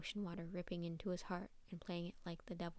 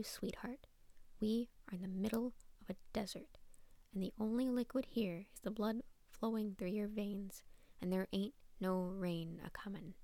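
raspy, taunting cat voice; rasping cat voice. Acted. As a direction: rasp it out like a mocking witch cat. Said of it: "a rasping voice echoed".

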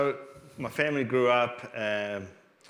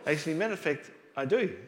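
laughing, pitched well up; amused answer to an alien question; amused reply; 8 semitones higher, faster than usual. Retold or imitated. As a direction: say it through a grin.

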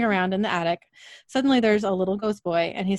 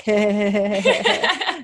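giggling to herself; 4 dB louder, slower than usual. Retold or imitated. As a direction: imitate your own giggle in a run of little heys. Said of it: "I'm like".

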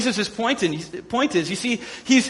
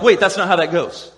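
puzzled crowd; 2 semitones lower than usual. Retold or imitated. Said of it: "And they're like".

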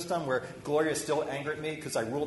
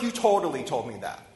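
insistent retort; 7 dB louder than usual. Retold or imitated. Retelling argument with mentor.

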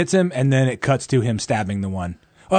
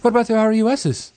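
quoting Buttercup; 9 semitones higher, faster than usual. Retold or imitated. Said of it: "quoting Buttercup from the film".

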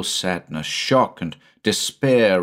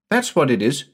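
put-on much higher, fast eager child; a boy bubbling about his plans; high quick child's voice; excited little boy; 7 semitones higher than usual.

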